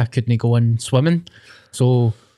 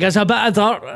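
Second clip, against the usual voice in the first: laughing excuse; 7 semitones higher than usual. Retold or imitated. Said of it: "I was like".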